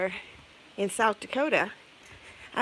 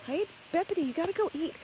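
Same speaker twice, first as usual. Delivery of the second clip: calling to chickens; 8 semitones higher, faster than usual. Real, not acted.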